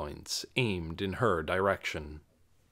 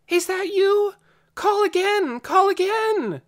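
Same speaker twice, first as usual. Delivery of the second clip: high loud calls, the last slower; calling out; 8 dB louder than usual. A narrator's reading. Lena calling to Dune across fields, loud. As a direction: shout to be heard far off.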